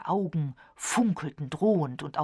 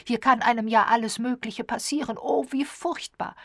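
high-pitched, fretful lament; wailing; 6 semitones higher, 5 dB louder than usual. A narrator's reading. Misses Rogers dreads the dreadful place, high wailing. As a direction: bewail it with raised pitch. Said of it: "jammerte sie".

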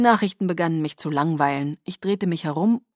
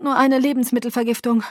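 higher, mildly breathless reply; a touch of panting after retching; gasping; 5 semitones higher, 4 dB louder than usual. Acted. Sick woman explaining food poisoning, mildly gasping. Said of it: "sagte ich keuchend".

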